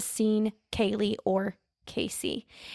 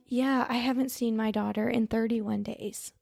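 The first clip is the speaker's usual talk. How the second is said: casual and offhand. Retold or imitated. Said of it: "she kinda says it, like, just like that".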